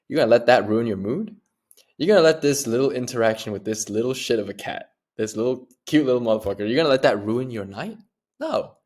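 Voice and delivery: loud, incredulous questions to yourself; retold mock disbelief, punched harder as it goes; amused self-scolding. Man talking himself out of a bad mood, amused disbelief. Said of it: "I just started laughing at myself".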